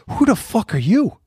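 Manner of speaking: a real flash of contempt; exasperated outburst. Real, not acted. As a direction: scoff at them in disbelief. Ranting at Trump sons.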